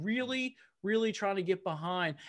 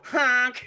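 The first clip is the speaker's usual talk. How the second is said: honk; 5 semitones higher, 7 dB louder than usual. Retold or imitated. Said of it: "We just go".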